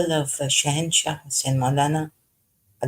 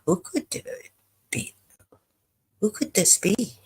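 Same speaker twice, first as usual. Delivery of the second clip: puzzled inner voice; 6 semitones higher than usual. Retold or imitated. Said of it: "You think".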